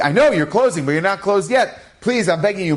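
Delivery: lightly acted, insistent begging; urgent pleading. Husband begging a closing pharmacist, insistent plea.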